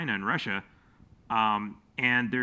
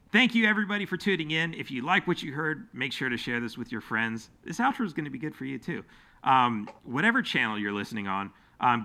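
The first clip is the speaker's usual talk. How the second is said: show outro. Shown as a demonstration. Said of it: "I'm gonna give my show outro".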